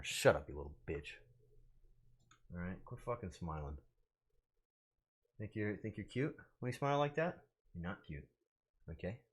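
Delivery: low, soft mock threat; quiet mock scolding. Streamer tells off someone for smiling, quiet mock menace. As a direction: scold it under your breath.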